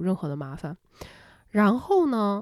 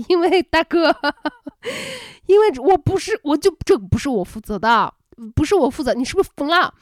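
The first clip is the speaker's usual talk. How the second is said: laughing exasperated retort; 7 semitones higher, 5 dB louder than usual. Retold or imitated. Retelling exasperated reply to neighbor.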